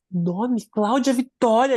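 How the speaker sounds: shocked echo of "Cláudia Vitória"; incredulous. Retold or imitated. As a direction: repeat the name as if it can't be true. Incredulous repeat of the name.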